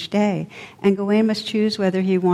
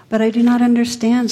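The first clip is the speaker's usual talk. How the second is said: stammering; 5 semitones higher, 5 dB louder than usual. Acted. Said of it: "stammered Gawain".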